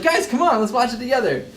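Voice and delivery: high-pitched, coaxing mock plea; mock pleading. Man coaxes kids back to his laptop movie, high mock pleading.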